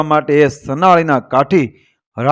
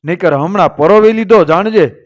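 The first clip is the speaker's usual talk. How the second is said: raised, higher-pitched challenge to halt; challenging call; 4 semitones higher than usual. Acted. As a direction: call out a warning to a fleeing farmer. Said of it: "પડકારો કર્યો કે".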